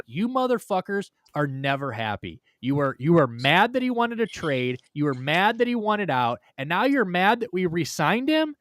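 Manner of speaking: exasperated yell at whining Browns fans; retold rant. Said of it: "I'm like".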